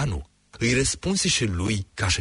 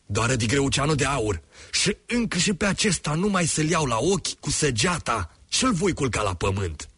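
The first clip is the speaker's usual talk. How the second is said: higher, fast roar of the dragon father; 7 semitones higher than usual. A narrator's reading. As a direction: bellow it in fury like a huge dragon. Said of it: "unde răcni".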